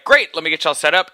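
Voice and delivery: lightly voiced Southern salesman accent; good old Southern boy. Salesman closing the deal, light Southern accent. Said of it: "this good old Southern boy".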